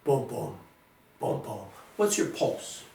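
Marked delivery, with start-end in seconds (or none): 0.0-1.6 heartbeat imitation. Shown as a demonstration. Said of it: "how to feel your pulse".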